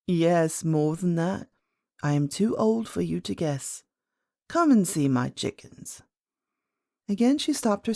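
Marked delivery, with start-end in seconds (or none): 0.1-6.0 lightly voiced old lady; a hint of an aged great-grandmother, slightly lower. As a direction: play a patient old woman.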